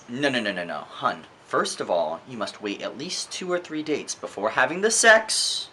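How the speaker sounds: imitating a prim scold calling her hun; mock scolding. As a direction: talk down to her like a prim aunt. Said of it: "what society teaches women".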